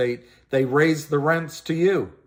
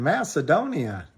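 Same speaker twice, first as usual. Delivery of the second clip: normal talking voice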